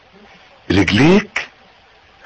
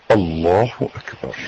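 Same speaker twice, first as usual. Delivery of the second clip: low, soft, slow takbir; hushed takbir; 9 semitones lower, 7 dB quieter, slower than usual. Shown as a demonstration. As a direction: murmur it humbly. Quiet prayer demo.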